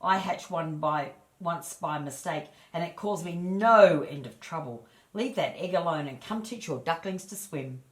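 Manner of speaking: put-on old duck giving unwanted advice; bossy old duck. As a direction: warn her off like a know-it-all neighbour. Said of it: "then said".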